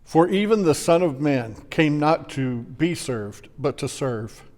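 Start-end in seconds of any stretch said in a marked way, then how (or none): none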